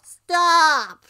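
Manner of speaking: very high, loud shout; shouted interruption. Acted. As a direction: cut in sharply at full volume. Ram cuts off the rant.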